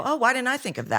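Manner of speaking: high mock sarcasm, eyes rolling; sarcastic. Sarcastic retort to advice to be authentic. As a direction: scoff at the useless advice.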